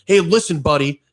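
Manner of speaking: imitating a rude man jabbing a finger; rude customer. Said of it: "and he goes".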